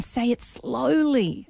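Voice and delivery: slow, stretched-out "slowly"; measured, unhurried instruction; deliberately slow. Shown as a demonstration. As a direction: draw out "slowly" to model the advice. Models the slow delivery she advises.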